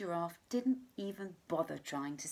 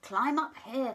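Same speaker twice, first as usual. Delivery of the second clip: louder call from above; calling monkey; 4 semitones higher, 6 dB louder than usual. Acted. Monkey calling animals up from the treetops. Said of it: "called the monkey".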